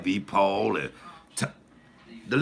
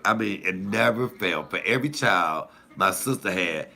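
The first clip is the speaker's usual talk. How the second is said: ordinary talk, nothing marked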